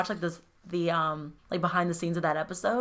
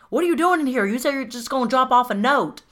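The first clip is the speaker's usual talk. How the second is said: bad Southern accent; 5 semitones higher than usual. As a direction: imitate a badly done Southern accent. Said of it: "Is that his actual accent?".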